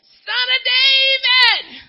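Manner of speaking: high, slow, loud plea; a blind man crying out to Jesus. Retold or imitated. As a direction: call out long and high for help. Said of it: "speaking with a loud voice".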